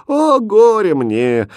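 slow, loud, high wail; mother wailing in grief; wailing lament. A narrator's reading. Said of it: "горько заплакала".

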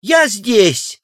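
high answering call across the hall. A narrator's reading. Wife answering her husband from the hall, high call. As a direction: answer from the crowd. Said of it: "отозвалась массивная супруга".

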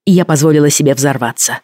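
usual speaking voice

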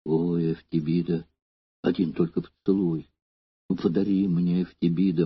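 faint, soft dying plea; begging with his last breath; barely audible. A narrator's reading. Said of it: "уже чуть слышным голосом произнёс".

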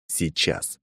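soft, barely voiced word; just shape it with the lips; mouthed silently. A narrator's reading. Man mouthing the answer to the woman, near silent. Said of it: "одними губами проговорил".

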